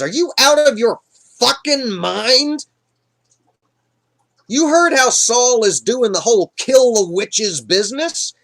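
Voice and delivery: high, loud, indignant rant; outraged witch. Retold or imitated. Woman refusing Saul's dangerous request, outraged. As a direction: scold in high, incredulous disbelief.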